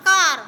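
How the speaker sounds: A said as an open আ vowel in "কার". Shown as a demonstration. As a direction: say "কার" loudly with the আ sound. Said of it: "আয়ের মতো উচ্চারণ হয়".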